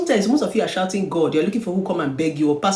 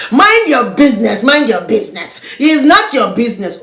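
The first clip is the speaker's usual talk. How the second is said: imitating a rude neighbour; 5 semitones higher, 9 dB louder than usual.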